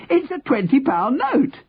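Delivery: very high cry of discovery; excited yell. A narrator's reading. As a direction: announce it high, as if jumping for joy. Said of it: "the man yelled, jumping up and down".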